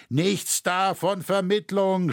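high, drawn-out cry of refusal; shouted refusal. A narrator's reading. Shoemaker rejecting the offer of mediation, shouted refusal. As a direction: call it out high, stretching the words. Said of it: "schrie der Schuster".

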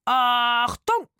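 loud, high, drawn-out military "attention" call; shouted command. A narrator's reading. Rufus shouting through the darkness, shouted command. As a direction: bellow the order out. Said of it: "schrie Rufus durch die Dunkelheit".

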